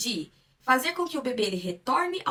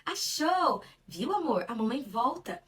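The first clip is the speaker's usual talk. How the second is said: put-on talking to a baby; 3 semitones higher than usual. Shown as a demonstration. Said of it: "Eu tiro". (falando com o bebê, voz aguda)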